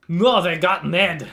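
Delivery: yelling henchman. Acted. Henchman yelling to his comrades about Ned, loud. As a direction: shout that Ned is down, then brush it off.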